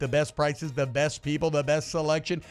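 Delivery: brisk sponsor pitch; radio ad read. Real, not acted. Host selling the car dealer to listeners, practised ad read. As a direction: rattle through the dealership's selling points.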